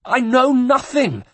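very high, slow piteous cry; cried piteously. A narrator's reading. The tortured monk cries out to the guard, high and piteous. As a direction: wail it like a broken man. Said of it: "the monk cried piteously".

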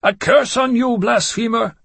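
high shrieking creature curse; screaming curse. A narrator's reading. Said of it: "one of them screamed".

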